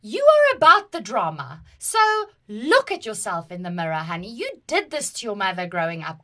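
a touch of mock self-scolding; inner scolding voice. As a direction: tease yourself like a knowing aunt. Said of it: "I'm just like".

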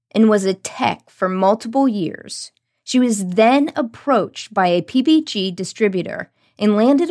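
lively, measured podcast promo read; announcer read. Acted. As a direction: tease next week's guest with punched key words. Reads next episode teaser.

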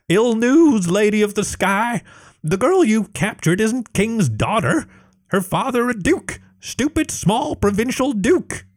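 high, halting kobold voice; a small lizard servant apologising; nervous kobold. Acted. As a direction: break bad news timidly. Kobold brings bad news.

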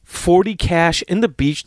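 high, rushed, indignant questions; high incredulous whine. Retold or imitated. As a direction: squeak out the outrage about the money. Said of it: "And then I was like".

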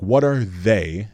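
slow down and lean on "they"; "they" set apart slowly, as if in air quotes. Real, not acted. Host voicing fear of others' judgment, "they" drawn out in air quotes. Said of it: "and I have air quotes".

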